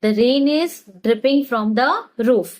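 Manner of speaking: very slow, word by word for learners; slow teaching demo. Shown as a demonstration. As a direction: spell it out slowly so students can repeat. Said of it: "इसे हम English में कैसे कहेंगे?". (धीमे-धीमे सिखाते हुए)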